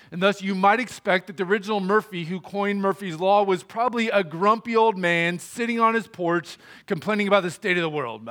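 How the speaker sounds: ordinary talk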